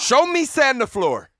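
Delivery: high, drawn-out sensei order; Mister Miyagi. Acted. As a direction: push the command up, slowly. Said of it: "Thank you, Mister Miyagi".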